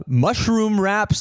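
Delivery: high, stretched-out hawker's call; mock a market seller calling out his wares, high and slow; imitated vendor yell. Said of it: "he's yelling it all out".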